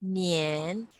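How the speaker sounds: 年 drawn out with a rising tone; second-tone demo. Shown as a demonstration. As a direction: lift the pitch through 年. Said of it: "nian is the second tone".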